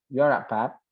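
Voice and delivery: lightly imitated Midlands accent; Brummie accent. Shown as a demonstration. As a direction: run the words together, Brummie-style. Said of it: "ada ini di Midland, Broomy". (logat Midlands Inggris tiruan)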